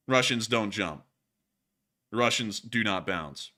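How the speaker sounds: choppy, deadpan text-to-speech voice; robotic screen reader. Pretend. Gamer mocking the drone clip like a robot narrator. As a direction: read it flat and choppy like an accessibility reader. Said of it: "you're sounding like what happens when you turn on that, like, um, like, hearing impaired function".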